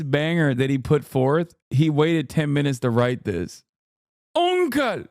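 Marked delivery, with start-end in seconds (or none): 4.3-5.0 squealed very high; very high gleeful squeal; squealed word. Retold or imitated. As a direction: shriek it high with glee. Shouting chatter's word.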